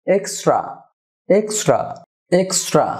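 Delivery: এক্সট্রা as "eks-chra"; correct pronunciation. Shown as a demonstration. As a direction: tr becomes "chr" in এক্সট্রা, each falling. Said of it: "সাধারণত চড়া উচ্চারণ". (এক্সট্রা-র সঠিক উচ্চারণ, "এক্সচ্রা")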